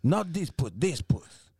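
mock French lover; French accent with a Southern slip; bad French accent. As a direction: play it in a fake French accent. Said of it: "your French accent is Southern".

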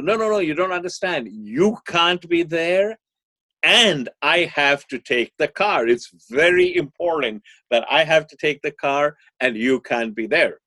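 beg, stretching the words out; pleading teen. Acted. Teenage son pleading with mother for the car, insistent.

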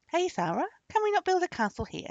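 high, loud request; calling out. A narrator's reading. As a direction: call up to an unseen servant. Archer calls his invisible servant.

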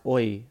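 oi said like English "oy", no H; silent H in "oi". Shown as a demonstration. Explaining to listeners how hoy is pronounced, oi with silent H. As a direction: say Spanish hoy as a plain "oi". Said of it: "the way they say it is H O Y".

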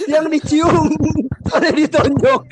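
mock girl crying to mom.

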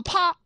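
sharp mouth-made slap, high pitched; table slap sound. Acted. Storyteller voicing Shi Xiu's hand slamming table, sharp slap noise. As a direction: crack it out like a palm hitting wood.

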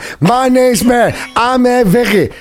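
mumbling as if through marbles; imitation of marbles-in-the-mouth talk; Bad Baby. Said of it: "talked like she had marbles in her mouth".

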